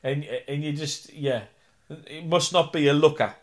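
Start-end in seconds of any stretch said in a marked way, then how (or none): 1.9-3.3 mock reading. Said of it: "it's always got".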